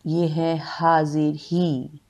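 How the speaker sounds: हाजिर ही with a long ee ending, the mistake; wrong ending. Shown as a demonstration. Teacher showing the common misreading. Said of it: "ये गलत है".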